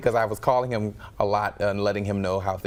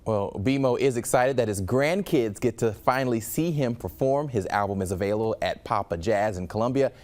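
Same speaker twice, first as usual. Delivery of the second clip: steady, polished newscaster delivery; news read. Acted. Anchor introducing a local musician's story, news read.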